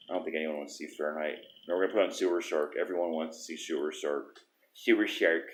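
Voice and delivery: soft lisping s sounds; a slight lisp on every s. Real, not acted. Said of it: "I'm sorry for my lisp".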